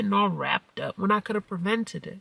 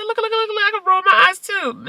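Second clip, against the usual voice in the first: high, loud rapid "look, look"; playful loud taunt; 14 semitones higher, 8 dB louder than usual. Retold or imitated. Mom teases the eye-rolling girl in a high, loud, goofy voice. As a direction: tease her loudly, goofy. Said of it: "I said".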